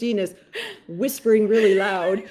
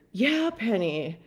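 annoyed; 6 dB quieter, slower than usual. Retold or imitated. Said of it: "like, annoyed".

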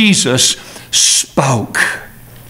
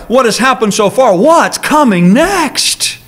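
exasperated worry; 5 semitones higher than usual. Acted. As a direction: ask it as if dreading another blow. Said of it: "We feel like".

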